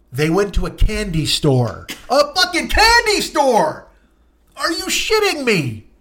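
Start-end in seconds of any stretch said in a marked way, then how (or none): 2.1-5.9 high, slow, incredulous outburst; exasperated comic rant; outraged disbelief. Real, not acted. Outrage at candy store trip.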